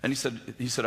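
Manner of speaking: ordinary talk, nothing marked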